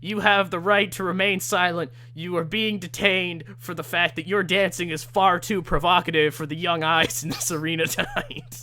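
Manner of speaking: mock stern police warning; officer scolding the dancer; lightly voiced officer. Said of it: "and he says".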